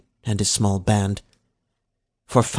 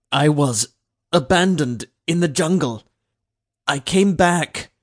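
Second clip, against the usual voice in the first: halting reply; 6 semitones higher, 3 dB louder than usual. A narrator's reading. Slave answers the overseer nervously.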